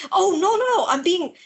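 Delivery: lightly voiced flustered assassin; assassin's normal voice. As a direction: backpedal in a fluster. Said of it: "goes back to his usual, like, normal voice".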